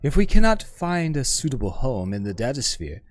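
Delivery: lightly voiced learned woman, wistful; poised scholar woman. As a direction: speak as a refined, self-assured scholar. GM voices the hive-mind woman.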